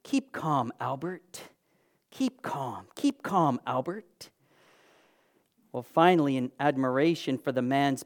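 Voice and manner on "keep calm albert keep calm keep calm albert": calm. Retold or imitated. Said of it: "the man calmly said".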